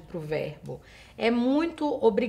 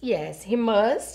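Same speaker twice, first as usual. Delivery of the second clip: slow model answer; much slower than usual. Shown as a demonstration. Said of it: "se for a resposta sim".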